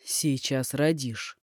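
very slow, low, nasty grin; menacing smirk. Acted. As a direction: drawl it with an unkind smirk. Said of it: "ухмыльнулся недобро".

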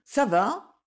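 lightly sweetened, careful check-in; soft voice. A narrator's reading. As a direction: ask softly if all is well. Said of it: "dit-elle d'une voix douce".

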